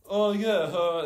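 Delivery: high, loud mock realisation; startled friend. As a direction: imitate someone suddenly snapping out of it. Imitates friend snapping back to task.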